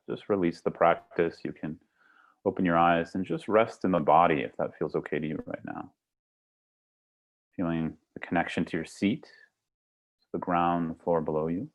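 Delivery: softly spoken meditation close, with pauses; guided meditation. Acted. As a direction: ease them gently out of the practice.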